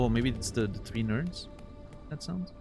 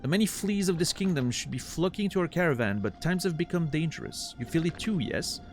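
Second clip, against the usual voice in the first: higher, theatrical flea showman; grandiose flea circus showman; 4 semitones higher than usual. Acted. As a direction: plead like a grand ringmaster. Voices flea master dialogue.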